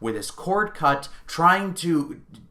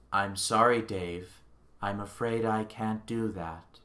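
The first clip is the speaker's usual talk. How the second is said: soft, even, unbothered machine voice; calm computer voice; 3 semitones lower, 5 dB quieter than usual. Retold or imitated. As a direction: politely refuse like a cold AI. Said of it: "he sounds like this".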